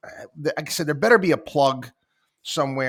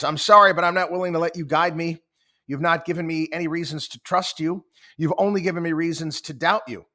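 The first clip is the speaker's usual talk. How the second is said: ticked off; 5 semitones higher, 5 dB louder than usual. Retold or imitated. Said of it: "Bing just starts getting ticked off".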